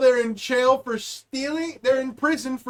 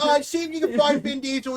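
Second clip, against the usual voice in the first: high-pitched dispatcher; 4 semitones higher than usual. Retold or imitated. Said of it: "how high pitch you got".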